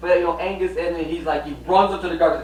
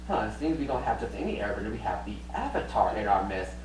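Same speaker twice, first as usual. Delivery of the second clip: sly king; 8 semitones lower, 8 dB quieter than usual. Retold or imitated. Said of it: "He's like".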